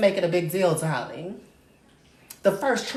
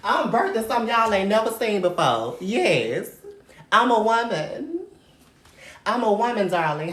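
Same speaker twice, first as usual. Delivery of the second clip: louder, declaiming to the stream; louder proud boast; loud proclamation; 4 semitones higher, 5 dB louder than usual. Acted.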